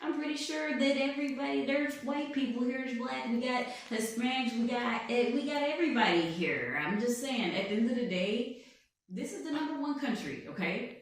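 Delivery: boastful blustering tycoon voice, put on all through; Donald Trump. President boasting to an interviewer, put-on blustering voice. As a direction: bluff and brag like a showman president. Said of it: "I'm Donald Trump".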